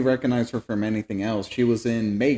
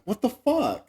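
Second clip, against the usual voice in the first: fake panicked Rose; 12 semitones higher than usual. Rose playing along.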